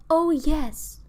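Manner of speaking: high, loud, trembling yes; tremulous. A narrator's reading. Mother answers the neighbour, tremulous and loud. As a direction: cry it out, voice trembling with relief. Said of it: "cried in a tremulous voice".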